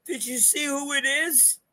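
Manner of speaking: put-on high-pitched, breathy-light kid voice; kid's excited question. Son bursting into the office, high excited voice. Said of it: "with tears in his eyes".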